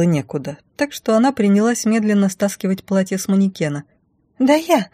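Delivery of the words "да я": high, furious splutter; hiss. Acted. Blonde rival sputters threats at the heroine, mock furious. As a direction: choke on rage. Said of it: "зашипела девица".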